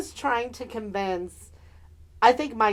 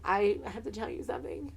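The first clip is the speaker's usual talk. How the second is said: soft, tentative lead-in, retold; imitating a careful confession to a friend; hushed confession; 2 semitones lower, 9 dB quieter than usual.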